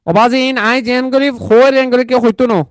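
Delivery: mock Chittagonian speech, lightly done; Chittagong dialect. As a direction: slip into a playful Chittagong accent. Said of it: "চট্টগ্রাম ভাষা আপনারা বুঝেন নাকি?". (হালকা চাটগাঁইয়া টানে বলা)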